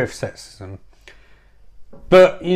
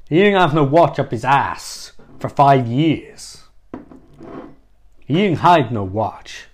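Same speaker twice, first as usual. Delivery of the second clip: Chris Walken. Acted. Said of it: "I'll do certain parts in his voice".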